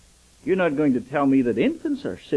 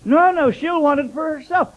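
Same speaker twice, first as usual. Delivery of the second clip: mother's voice; 11 semitones higher, 8 dB louder than usual. Retold or imitated. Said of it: "And she says".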